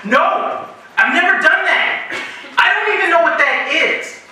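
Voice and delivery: exasperated denial. Retold or imitated. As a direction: insist you've never done it, voice shooting up. Flatly denying to pushy students.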